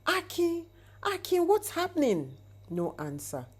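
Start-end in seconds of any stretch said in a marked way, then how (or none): 0.1-2.4 much higher, urgent calling through the door; panicked yell at a locked door; frantic shout. Acted. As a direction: shout his brother's name in alarm.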